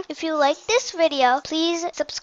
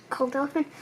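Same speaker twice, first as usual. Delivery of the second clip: ordinary delivery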